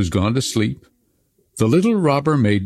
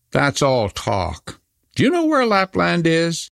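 put-on robber girl; 8 semitones higher than usual. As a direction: wave it off then ask.

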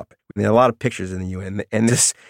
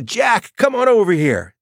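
mother calling out. Retold or imitated. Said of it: "screams at one of the boys".

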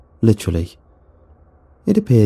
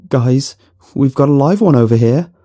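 raised, higher calling voice; yelled; 5 semitones higher, 5 dB louder than usual. A narrator's reading. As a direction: call out urgently to the group. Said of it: "I yelled".

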